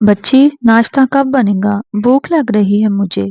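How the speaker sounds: loud, demanding call from the doorway; shouting. Acted. Husband shouting for breakfast as he enters the kitchen, loud. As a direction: yell for breakfast as you barge in. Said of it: "وہ kitchen میں چیختا ہوا داخل ہوا".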